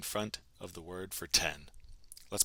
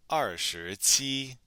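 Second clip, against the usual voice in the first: slow, louder, each syllable drawn out; slow model pronunciation; 4 semitones higher, 6 dB louder, much slower than usual. Shown as a demonstration. Teacher answering how to say twenty-seven, slow model pronunciation. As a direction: say it slowly for learners to copy.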